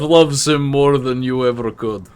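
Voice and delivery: put-on Russian accent. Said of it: "thick Russian accent".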